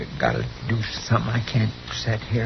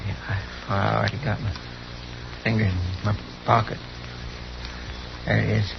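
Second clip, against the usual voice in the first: hushed; 7 dB quieter than usual. Acted. Hushed near a rattlesnake.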